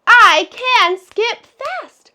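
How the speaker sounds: whispered, slow, one tap per word; slow whispered tapped sentence; tapping the words. Shown as a demonstration. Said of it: "Let's tap it".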